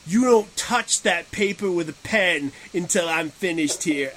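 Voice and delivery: lightly put-on tough negotiator; bossy haggler voice. Imitating co-host protecting the artist's deal, mock-bossy haggler. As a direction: step in and lay down the law. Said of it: "why you just turned into that voice".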